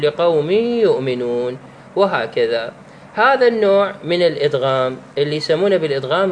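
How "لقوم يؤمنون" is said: slow, with idgham into the ya; tanween merged into ya. Shown as a demonstration. Teacher demonstrating idgham of tanween into ya, slow. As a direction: say "لقوم يؤمنون" slowly with the tanween of "لقوم" absorbed into a doubled y, "لقومِ يّؤمنون". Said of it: "تقول".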